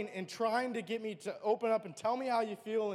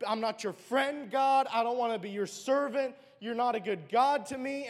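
raised, louder outburst at God; retold anger at God; 2 semitones higher, 5 dB louder than usual. Lashing out at God after losing the baby, raised and louder. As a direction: pour out the anger, voice climbing. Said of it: "I was so angry at God".

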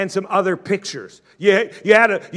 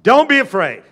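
rallying call; 6 semitones higher, 7 dB louder than usual. Shown as a demonstration. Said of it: "Everybody say".

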